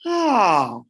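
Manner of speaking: a sung ah dipping low. Shown as a demonstration. Teacher to class, showing a low ah. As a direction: drop the vowel down to a low pitch. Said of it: "perdón, un tono grave".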